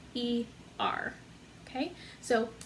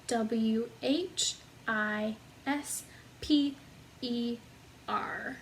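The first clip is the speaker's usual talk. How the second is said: slow spelling; 4 dB quieter, much slower than usual. Shown as a demonstration. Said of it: "So if we did it all together".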